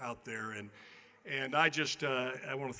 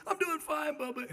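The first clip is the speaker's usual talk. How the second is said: put-on much higher small boy's reply; little kid voice; 12 semitones higher than usual. The kid answering the actor, high child voice. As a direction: answer brightly like a ten-year-old. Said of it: "He goes".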